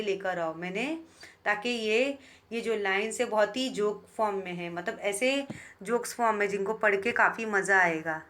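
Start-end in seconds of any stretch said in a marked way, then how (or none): none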